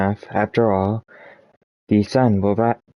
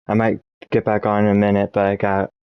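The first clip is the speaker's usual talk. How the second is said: talking with the hiccups; faster than usual. Real, not acted. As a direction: hiccups breaking up the words. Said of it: "wait until the hiccups are gone".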